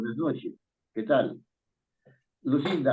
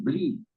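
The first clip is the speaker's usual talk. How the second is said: BLI held as the strong syllable; stress on BLI; 3 dB quieter than usual. Shown as a demonstration. Teacher showing where the stress falls, BLI drawn out. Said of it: "la fuerza de voz está en".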